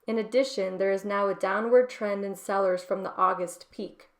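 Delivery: steady newsreader reading voice; article read aloud. Acted. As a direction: read it like a market report. Reads a financial article aloud.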